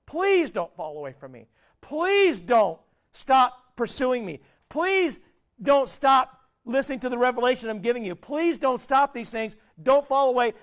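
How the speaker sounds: lightly voiced pleading God, slow in places. Preacher voices God begging the congregation not to fall away, earnest plea. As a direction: beg them gently not to leave. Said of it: "God's saying".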